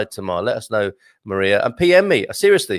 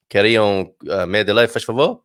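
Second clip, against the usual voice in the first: Portuguese phrase; 3 semitones lower than usual. Retold or imitated. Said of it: "you think you've done a good job of saying".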